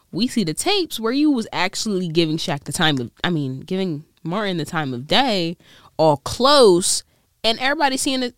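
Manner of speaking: normal talking voice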